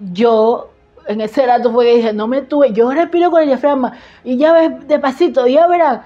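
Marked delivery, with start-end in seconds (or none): 2.1-6.0 higher-pitched urgent reenactment; retold self-assured insistence, pitched up; insistent pleading. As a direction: argue your case in a raised voice. Reenacts pleading against intubation.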